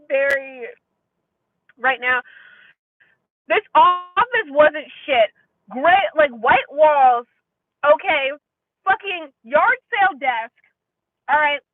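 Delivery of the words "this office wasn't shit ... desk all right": louder, slow, indignant rant; yelling. Real, not acted. Ranting to viewers about the interviewer's office, louder. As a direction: lay each detail out loud and slowly. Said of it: "I'm sorry I'm yelling".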